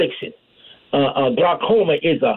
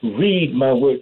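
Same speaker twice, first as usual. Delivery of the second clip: lightly voiced God, lower pitch; a hint of divine command, pitched down; 6 semitones lower, slower than usual. God telling the believer to read, lightly voiced low command. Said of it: "the voice of God saying".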